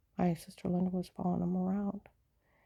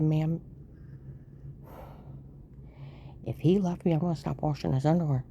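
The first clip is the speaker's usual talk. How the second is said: exasperated retort; 3 semitones lower than usual. Retold or imitated. Retorting to nosy old lady.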